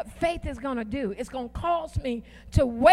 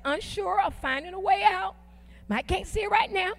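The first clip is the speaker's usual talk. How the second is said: higher-pitched preacher's declaration, holding back the volume; declaring; 4 semitones higher than usual. Shown as a demonstration. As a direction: declare it high, building toward the comeback. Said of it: "I'm declaring it".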